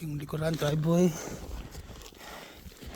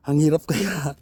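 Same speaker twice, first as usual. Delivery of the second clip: out of breath. Real, not acted. Vlogger tells viewers shovelling is hard, out of breath. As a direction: puff it out, winded from effort. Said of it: "medyo hiningal na ako".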